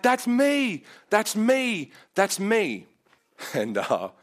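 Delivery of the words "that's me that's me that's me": higher, louder mock scream; excited woman claiming the healing, retold. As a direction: shout it out as the healed woman.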